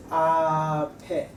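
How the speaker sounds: ape with the p carried into the vowel, slowly; linked p before vowel. Shown as a demonstration. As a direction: let the p of ape open into the next vowel. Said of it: "then we can pronounce this".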